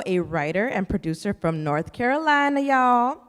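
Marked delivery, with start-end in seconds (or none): 1.6-3.2 hammed-up Southern drawn-out y'all, pitched up at the end; badly faked North Carolina accent; poor Southern accent. Host introducing a North Carolina poet, poor mock Southern accent. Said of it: "That was a poor accent".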